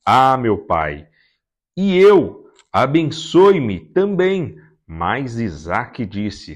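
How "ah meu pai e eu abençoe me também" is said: higher, louder, slow pleading wail; a broken, drawn-out plea for a blessing; bitter anguished cry. Acted. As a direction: cry out in bitter grief to the father. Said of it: "soltou um forte grito amargurado e suplicou".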